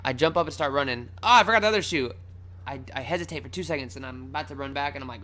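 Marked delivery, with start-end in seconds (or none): 1.2-2.1 higher, louder exclamation; retold sudden realisation. Fleeing runner remembers his shoe, alarmed.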